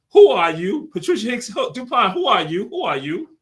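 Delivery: high, loud hype call; hype question. Acted. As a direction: fire the question like a show opener. Host calling out hype question.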